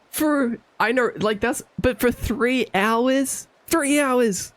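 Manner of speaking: "Three hours!" punched high; exasperated emphasis; stress on three hours. Real, not acted. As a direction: hit "Three hours" in disbelief.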